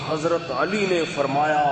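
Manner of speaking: drawn-out, half-hearted imitation of shouting; mock preacher's yell. Preacher shouting into the loudspeaker at his sermon, mock yell, drawn out. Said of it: "بہت چیخ کے".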